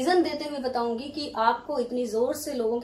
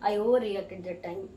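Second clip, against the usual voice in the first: sincere apology; 4 semitones lower, much slower than usual. Shown as a demonstration. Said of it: "अगर आपने इस तरह से कहा".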